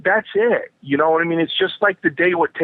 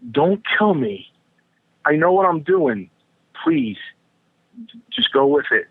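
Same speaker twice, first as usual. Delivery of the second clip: mock pleading. Wrestler silently begs his opponent not to kill him, mock pleading. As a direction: plead half in jest, pausing between phrases.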